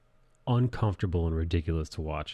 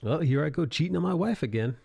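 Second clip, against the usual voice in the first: goofy clown voice; 9 semitones higher than usual. Pretend. Clownish mock confession.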